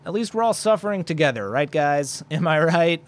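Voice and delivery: wry, half-laughing sarcastic rally; joking sarcasm. Pretend. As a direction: tease the listeners with mock cheer. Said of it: "I'm just kidding".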